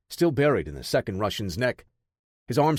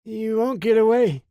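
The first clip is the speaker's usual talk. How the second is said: much higher, louder, beaten-up slurred defiance; 11 semitones higher, 6 dB louder than usual. A narrator's reading. Beaten Parker defying captors, higher and louder slurred. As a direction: spit it out through a battered face. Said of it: "he slurred".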